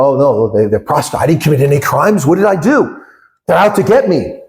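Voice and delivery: a mock wounded innocent plea; playing the victim. Mocking Jacob Zuma's self-pitying victim act. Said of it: "fond of playing the victim".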